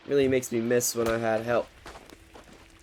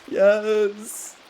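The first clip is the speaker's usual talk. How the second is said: excited yes; 8 semitones higher, 3 dB louder than usual. Real, not acted. Reacts to fish gift.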